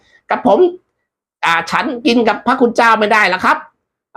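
high, timid voice for the death messenger. Acted. Death messenger refusing the monk, high and timid. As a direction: politely refuse in a high servant's voice.

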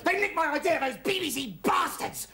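high outraged complaint, slowing onto the insult; indignant rage. Acted. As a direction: rail bitterly at the thieves. Richie rages at stolen idea.

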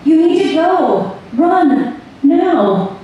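high, separated shouted commands; restrained scream, each command pitched high; urgent cry. A narrator's reading. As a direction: call a warning over a roar. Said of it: "they could hear her over the roar".

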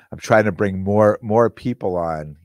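ordinary delivery

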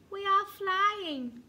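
high, loud, slow protest; puzzled dragonflies, voice lifted; surprised. A narrator's reading. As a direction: answer back in surprise. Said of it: "said the dragonflies in surprise".

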